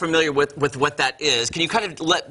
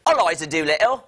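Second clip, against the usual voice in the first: playful Cockney character name; attempted Cockney accent. Host introducing the lead actress, trying a Cockney accent. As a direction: have a go at Cockney. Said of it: "I'm getting better as we go".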